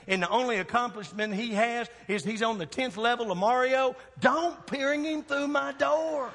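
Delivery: hammed-up fatherly rant, climbing to the end; stern dad warning. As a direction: lay down the law, stretching the final order. Father warning daughter about boyfriends.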